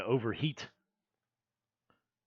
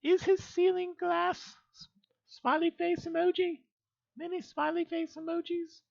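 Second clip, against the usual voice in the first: very high, squeaky put-on voice; pitched way up, cartoonish; high-pitched character voice. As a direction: read it out in a tiny falsetto. Streamer voices a character reading chat.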